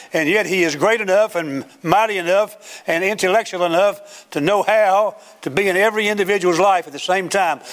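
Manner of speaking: sustained, exalting sermon delivery; fervent preaching. Real, not acted. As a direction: proclaim it in driving preacher cadence. Preaching rises on God's omnipresence.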